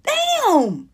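high, strained complaint ending in a cry; exasperated plea. Retold or imitated. Comic begs starers to let her enjoy life, exasperated. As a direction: beg to be left alone, voice cracking up high. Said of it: "I'm like".

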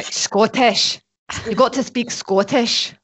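playful, exaggerated go at Scottish; mock Scottish accent. Shown as a demonstration. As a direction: coach someone in a put-on Scottish accent. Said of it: "your Scottish accent isn't too bad".

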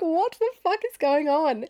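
high, exasperated put-on cry; mock upset wail. Stranded daughter to laughing dad, mock despairing wail.

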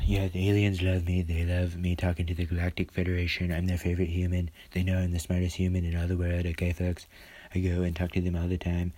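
lightly voiced Trump bragging; a hint of Trump boasting to folks; Trump impression. Vlogger imitating Trump about aliens, lightly voiced brag. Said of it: "He's like".

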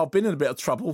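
quick mock-cockney patter; imitating a forced London accent; put-on London accent. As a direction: rattle it off in a fake London accent. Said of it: "putting it on with it".

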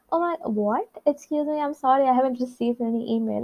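gently confused, keeping it nice; quite nice. Retold or imitated. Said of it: "I was quite nice".

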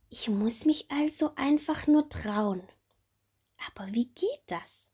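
high, bright little bumblebee; small bumblebee voice. Acted. Little bumblebee Bommel asking Marie about her wings, high childlike voice. Bommel wonders how to be brave.

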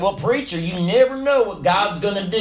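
mock Southern preacher-talk accent. Churchgoer to preacher, said for emphasis, southern accent. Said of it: "say it with a southern accent".

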